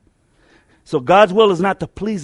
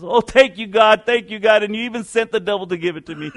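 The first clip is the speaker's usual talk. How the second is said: put-on grateful old woman; 3 semitones higher than usual. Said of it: "the old lady says".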